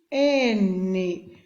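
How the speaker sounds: "Canjica" drawn out with long gaps between syllables. Shown as a demonstration. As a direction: slowly separate "Canjica" into can, ji, ca. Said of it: "Você vai separar a sílaba".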